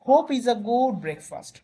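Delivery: each word drawn out slowly; slow quote reading. Shown as a demonstration. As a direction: read the quote very slowly for students. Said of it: "reading a quote slowly to class". (ধীরে ধীরে উদ্ধৃতি পড়া)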